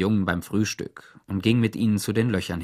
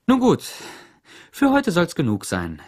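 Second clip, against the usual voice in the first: bossy Warden; 7 semitones higher, 5 dB louder than usual. A narrator's reading. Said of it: "sagte die Chefin".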